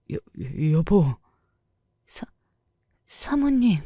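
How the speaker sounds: stammer, stalling on the first syllable; halting, flustered address; startled stammer. A narrator's reading. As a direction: caught out and fumbling for words. Caught couple stammering at wife's entrance.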